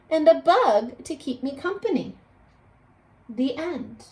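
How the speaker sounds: storybook read-aloud voice; bright read-aloud for a class; expressive classroom storybook reading; reading to children. Acted. Teacher reads story aloud.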